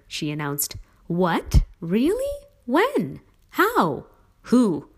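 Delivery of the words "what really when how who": rapid-fire questions, high and loud; excited burst of questions. A narrator's reading. Boy pelting his parents with eager questions, high and loud. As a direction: fire off each question higher and louder. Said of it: "This last one was me".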